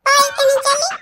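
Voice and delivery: put-on a sulky child sobbing go away; tearful child. Crying child shoos grandmother away. (ఏడుస్తూ అవ్వను వెళ్లిపోమనే పిల్లవాడు)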